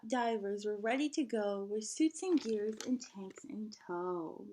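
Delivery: lively storybook read-aloud; singsong picture book reading; reading to children. Acted. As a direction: read it like story time for a class. Teacher reads picture book aloud.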